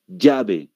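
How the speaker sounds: "llave" said as "yabe"; Peruvian Y. Shown as a demonstration. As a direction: start "llave" with a Y sound. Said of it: "¿Notan la diferencia?".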